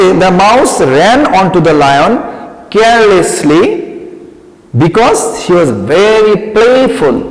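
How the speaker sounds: put-on each word drawn out slowly for children; slow dictation. Shown as a demonstration. Teacher reading the question slowly to young pupils. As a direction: read it slowly so pupils can follow. Model answer read slowly.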